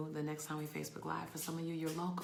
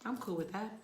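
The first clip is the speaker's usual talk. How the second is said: praying to God; 5 semitones higher than usual. Retold or imitated. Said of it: "And I kept saying".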